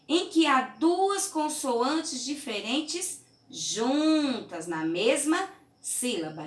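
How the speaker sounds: slow down and stress every word of "consoantes diferentes juntas"; stressed reading. Shown as a demonstration. Teacher stressing the rule for the class, slow and loud. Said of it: "contorne as sílabas".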